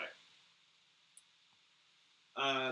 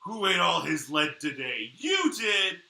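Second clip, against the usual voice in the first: put-on baby talk to a dog; 3 semitones higher, 10 dB louder, slower than usual. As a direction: coo at the pet.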